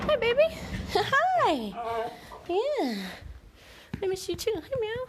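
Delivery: very high cooing. Real, not acted. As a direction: coo high and sweet at the dog. Greeting dog after absence.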